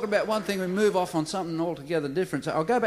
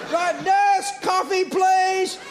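much higher, loud call down the ward; shouted order; 13 semitones higher, 5 dB louder, much slower than usual. Acted. Doctor shouts to the nurse for porridge, loud call. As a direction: bellow for the nurse.

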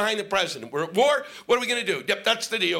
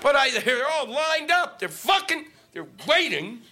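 exasperated rant; 5 semitones higher than usual. Real, not acted. Annoyed at traffic.

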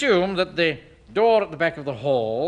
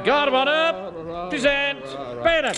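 parade-ground command; 10 semitones higher, slower than usual. Acted. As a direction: bark it out like a drill sergeant. Officer drilling the guard of honour.

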